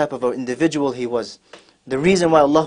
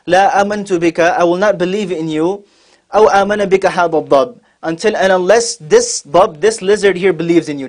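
higher, emphatic storyteller's defiance; defiant challenge; 4 semitones higher, 4 dB louder than usual. Retold or imitated. Bedouin throws the lizard before the Prophet, defiant challenge. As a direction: throw down a dare in a raised voice.

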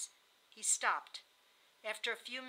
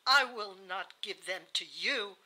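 loud, deliberate refusal; bitter refusal; 8 dB louder, slower than usual. A narrator's reading. Dying wife refusing her husband the children, bitter. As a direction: lean hard and loud on the key words.

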